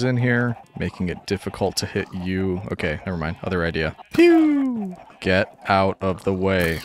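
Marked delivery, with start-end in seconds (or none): 4.1-5.0 high, drawn-out pew; imitated "pew" shot. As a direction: make a long high-pitched laser zap noise. Imitates a shot mid-game.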